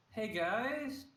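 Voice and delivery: robot voice with trepidation; robotic greeting with a nervous edge. Acted. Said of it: "Trepidation palpably, heard on my robotic voice".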